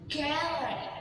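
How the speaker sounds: "gallery" stressed on the first syllable; primary stress. Shown as a demonstration. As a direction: lean on "gal" in "gallery". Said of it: "The example of primary stressing".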